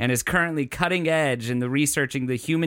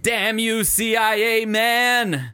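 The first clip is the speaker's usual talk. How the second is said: higher, louder, slow fist-shaking curse; sputtering foiled villain; 8 semitones higher, 4 dB louder, slower than usual. Acted. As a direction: curse them like a beaten cartoon villain.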